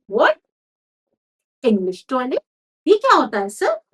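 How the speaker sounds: as if he has never heard the word; a startled, confused question; baffled manager. Acted. Confused manager reacts to demand.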